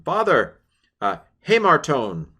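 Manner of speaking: repentant son. Acted. Voicing the son again.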